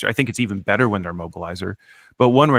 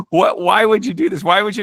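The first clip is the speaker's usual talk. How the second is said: high, louder mock outburst of disbelief; retold disbelief; 11 semitones higher, 5 dB louder than usual. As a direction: play the boss losing his mind. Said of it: "Kevin lost his mind".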